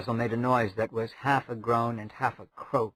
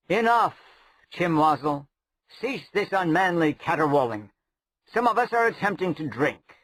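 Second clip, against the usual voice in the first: a hint of a lofty scolding; lightly voiced haughty prince; 4 semitones higher than usual. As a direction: tell him off with weary disdain. Prince rebukes the rogue.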